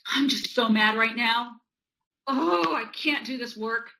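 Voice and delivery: mildly hammed-up exasperation; acted frustration. Child venting about work while tapping, mock frustration. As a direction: grumble like a stuck pupil. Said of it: "what that would look like".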